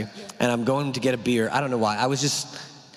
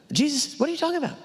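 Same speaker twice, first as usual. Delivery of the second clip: mock outrage; 13 semitones higher, faster than usual. Mock protest at Jesus.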